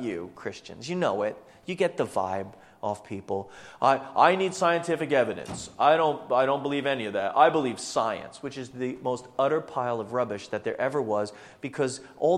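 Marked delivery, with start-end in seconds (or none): 3.8-8.4 loud, insistent mock protest; mock sceptic. World telling Christians it needs evidence, mock insistent. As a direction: parody a stubborn sceptic, slowing on the last claim. Mimics unbelievers demanding scientific evidence.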